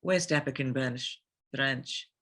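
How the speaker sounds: African accent. Shown as a demonstration. Reciting Sheva's title in an African accent on request. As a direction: roll out the name and title in a thick African accent. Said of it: "could you say, uh, Captain Sheva Alomar".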